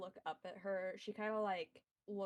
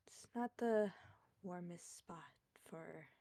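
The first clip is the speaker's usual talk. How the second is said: soft, unvoiced, sighed out; weary sighing whisper; 5 dB quieter than usual. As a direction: whisper it with tired sorrow. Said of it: "sighs out".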